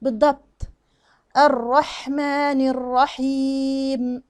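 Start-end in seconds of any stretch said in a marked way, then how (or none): 1.4-4.2 very slow recitation with long vowels held; measured recitation. Shown as a demonstration. Teacher models the next verse, slow measured recitation. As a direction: recite "الرحمن الرحيم" slowly, sustaining the last m. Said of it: "نفسها بالضبط اللي فوق".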